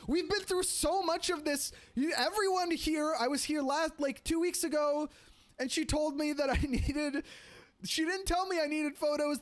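high-pitched panicked retold rant; freaking out. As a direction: rattle it off, half-panicked and pleading. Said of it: "I'm freaking out".

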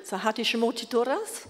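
Dari greeting in Afghan Dari accent. Shown as a demonstration. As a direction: greet someone in Afghan Dari, starting high. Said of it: "can you say something briefly in, uh, the Dari, uh, accent?".

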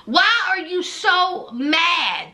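hammed-up indignant wife; mock exasperated shout. Wife questioning angry husband.

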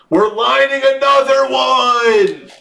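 high, sustained hype shout; excited call. Real, not acted. Breaker lining up another winner, excited call. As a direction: call it out in celebration.

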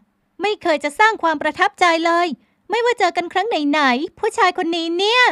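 high, loud, slow grumble; sulky and fed up; annoyed young woman. A narrator's reading. Heroine's voice, annoyed.

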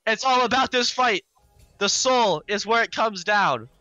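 strained, hoarse caster voice. Real, not acted. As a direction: talk through a hoarse, worn throat. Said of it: "My voice is so hoarse".

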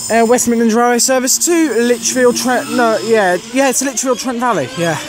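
panting, out of breath from running; catching breath between words. Real, not acted. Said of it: "I'm out of breath 'cause I just ran down there".

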